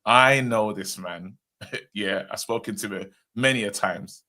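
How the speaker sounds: imitating a panicking Geordie accent; lightly voiced Geordie accent, urgent. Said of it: "in his Geordie accent".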